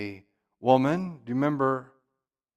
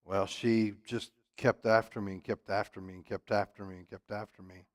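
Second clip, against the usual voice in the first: whiny excuse; 5 semitones lower, 9 dB quieter than usual. Retold or imitated. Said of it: "Samson's excuse?".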